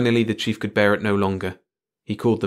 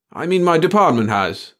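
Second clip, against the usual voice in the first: hasty; 8 semitones higher, 6 dB louder than usual. A narrator's reading. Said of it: "the chief covered himself hastily".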